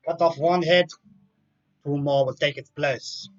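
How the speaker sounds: mock German Hydra, badly faked; terrible German accent. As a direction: put on a clumsy German accent. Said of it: "That's my terrible German, uh, Hydra accent".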